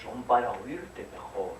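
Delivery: slow wolf reply; wolf answer. Acted. Wolf answers the girl, slow and sly. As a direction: drag out the wolf's sly answer. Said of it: "Y dijo el lobo".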